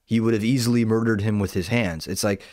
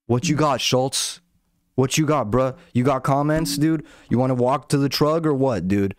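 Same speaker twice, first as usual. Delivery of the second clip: mock animated challenge; 4 semitones higher than usual. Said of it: "I could get animated too".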